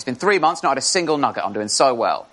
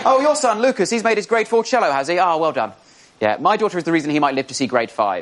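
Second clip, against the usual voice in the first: lightly voiced bragging mum, sweetly superior. Smug playground parent voiced.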